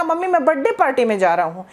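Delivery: quick "बर्थडे" as bad-day, no th; "बर्थडे" squashed to bad-day, fast; imitated mispronunciation. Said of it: "बच्चा mummy को क्या बोलेगा".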